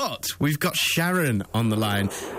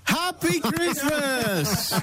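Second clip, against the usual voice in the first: sarcastic; 13 semitones higher, much slower than usual. Real, not acted. Sarcastic reply to spiteful neighbour.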